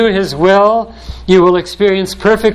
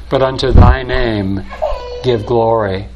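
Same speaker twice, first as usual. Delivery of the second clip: voice breaking; 5 semitones lower than usual. Real, not acted. Preacher overcome quoting psalm.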